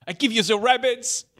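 hammed-up press conference host; mock Ubisoft announcer. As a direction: pitch it like a grand press reveal. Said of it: "doing impressions of, like, Ubisoft announcing stuff".

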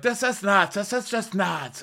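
high, incredulous mock exasperation. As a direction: throw up your hands in disbelief. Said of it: "Lisa's like".

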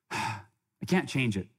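sigh, then slow "I can't change it"; deep breath, acceptance. Shown as a demonstration. Speaker shows audience how to acknowledge it, after a deep breath. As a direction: let a breath out and concede it slowly. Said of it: "you take that deep breath".

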